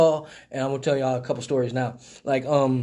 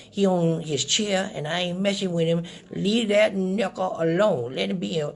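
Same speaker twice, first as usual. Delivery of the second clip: put-on confused old lady; 2 semitones higher than usual. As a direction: pick up the phone like a muddled grandma. Old lady talking about Henry.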